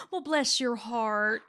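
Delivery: slow, lightly voiced knowing grandma; imitating Southern grandma. Repeating grandma's line for laughs, slow and knowing. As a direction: stretch it out as grandma's veiled dig. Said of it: "she would do the".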